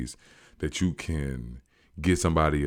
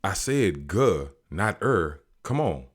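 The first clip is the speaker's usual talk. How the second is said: slow mock correction; 2 semitones higher, slower than usual. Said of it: "he gonna say".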